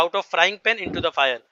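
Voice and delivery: very slow, word by word; slow proverb recital. Shown as a demonstration. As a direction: repeat it slowly so students catch it. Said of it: "यानी एक मुसीबत से निकल के दूसरे मुसीबत में अटका".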